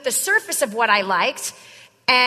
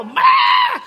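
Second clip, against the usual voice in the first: much higher, louder yelp; hammed-up squeal of excitement; mock excited squeal; 6 dB louder than usual. Shown as a demonstration. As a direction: blurt it like an overeager rookie. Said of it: "Don't you get all".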